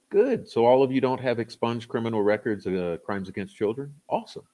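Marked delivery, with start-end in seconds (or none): 0.1-0.5 sarcastic. Acted. Sarcastic reply to viewer. 4.1-4.4 sarcastic. Acted. Sarcastic reply to viewer.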